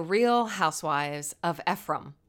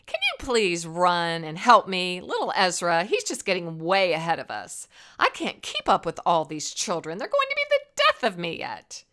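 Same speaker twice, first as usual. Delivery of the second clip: smirking; 3 dB louder than usual. Acted. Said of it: "Penny smirked".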